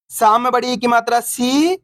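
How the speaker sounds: final "सी" stretched long and rising; teacher's chant ending on a long "सी"; drawn-out vowel. Shown as a demonstration. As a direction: spell it out, then hold the ee in "सी". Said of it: "अपन खींच खींच के पढ़ेंगे".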